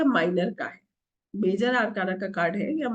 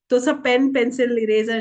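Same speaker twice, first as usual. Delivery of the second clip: louder, commanding the class to drop everything; firm louder call; 7 dB louder than usual. Real, not acted. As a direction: call out the supplies firmly. Telling class to drop pens. (ज़ोर से, हुक्म देते हुए)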